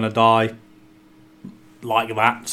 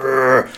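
skeleton growl. Acted. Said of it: "he's sort of like".

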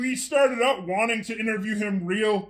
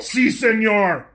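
mock Spanish, slow and drawn; badly faked Spanish phrase; fake foreign language; 3 semitones higher, slower than usual. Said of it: "that's not French".

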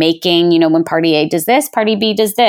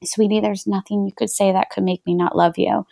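put-on softer, tender words to a child; soft reassurance; 6 dB quieter than usual. Mother comforting her upset daughter, soft and tender. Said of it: "I'm like".

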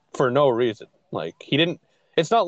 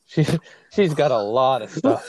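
laughing; 2 semitones higher than usual. Real, not acted. Laughing while telling story.

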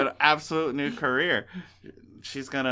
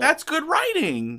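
ironic praise; 12 semitones higher, 5 dB louder, slower than usual. Acted. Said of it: "So we were talking about writing".

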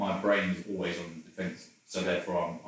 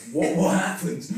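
confused waking; 10 semitones higher, 8 dB louder than usual. Retold or imitated.

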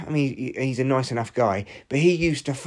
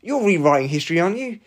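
indignant retort; 5 semitones higher than usual. Retold or imitated. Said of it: "I've actually messaged him and I went".

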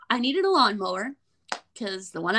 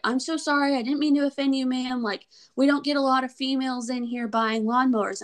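apologetic salesman; 4 semitones higher than usual. Retold or imitated.

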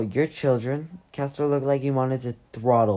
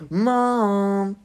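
growled; 7 semitones higher, 4 dB louder than usual. A narrator's reading. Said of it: "Stina growled".

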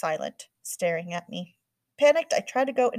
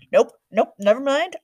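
much louder, higher cut-off; exasperated mom; 6 semitones higher, 9 dB louder than usual. A narrator's reading. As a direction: shut it down sharply. Mom cutting herself off.

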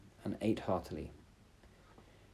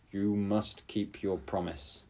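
stern. Acted. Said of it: "looked at her sternly and said".

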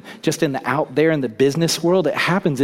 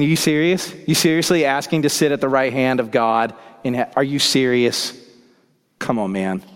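indignant disbelief; 4 dB louder than usual. Retold or imitated. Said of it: "indignant or angry with James".

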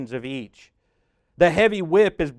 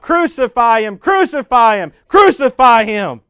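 loud, higher shouted chant, last one slowed; louder crowd cry; 8 semitones higher, 10 dB louder than usual. A narrator's reading. Narrator voicing the crowd overruling Pilate, loud shouted chant. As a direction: yell it like a mob gone wild. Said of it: "They get louder and louder and cry out".

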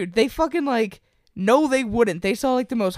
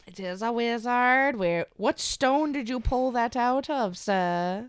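hushed, slow voice of an awed villager; quiet awed peasant; 4 semitones higher, 5 dB quieter, slower than usual. Pretend. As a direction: marvel at the stranger softly. Peasant voice continues bit.

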